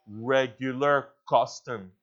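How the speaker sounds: "regular" drawn out slowly and set apart; slow, deliberate weight on "regular"; stress on regular. Real, not acted. Preacher naming Job's habit, stressing "regular". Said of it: "I wanna emphasize that word".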